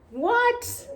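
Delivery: high disbelieving squeak of what; shocked what. Real, not acted. Vlogger stunned at the policeman's insult, shocked. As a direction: react like you can't believe the insult.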